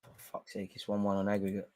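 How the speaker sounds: breathless whispered swear, very soft; whispered oath of frustration; whispered curse. Real, not acted. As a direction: hiss it under your breath in despair. Despair at rival goal.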